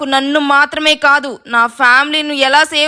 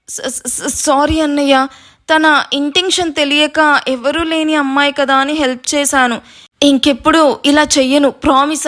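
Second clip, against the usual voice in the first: scared stammer. Acted. Scared younger brother apologising.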